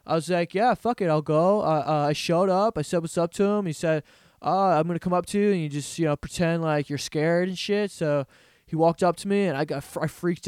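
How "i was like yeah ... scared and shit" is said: dopey actor voice. Retold or imitated. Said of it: "This guy's like".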